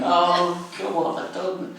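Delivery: high, loud exclamation of dismay; mock horrified realisation. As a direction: act out the lad's sudden mortified shock. Retold horror at recognising a musician.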